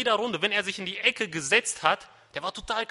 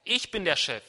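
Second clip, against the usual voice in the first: firm, punched-out declaration; loud, with emphasis. Acted. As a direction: assert authority as God. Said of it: "Das sagt er laut".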